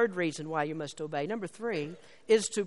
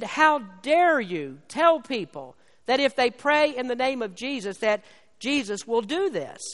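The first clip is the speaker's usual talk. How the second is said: hammed-up outrage of a grieving woman; angry retort; 3 semitones higher, 3 dB louder than usual. Angry churchgoer confronting the preacher, loud and indignant. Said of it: "became very angry about that".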